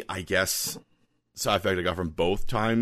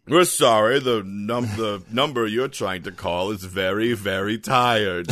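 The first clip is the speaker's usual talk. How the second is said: automated phone message; 4 dB louder than usual. Pretend. Mock phone recording message.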